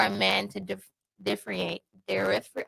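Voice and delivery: stumbling words around chewing gum; chewing gum while talking; mouth full. Real, not acted. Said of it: "I have gum in my mouth".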